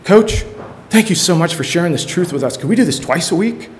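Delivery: put-on a keen teen thanking the coach; lightly voiced eager kid; grateful student. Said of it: "this is what it's".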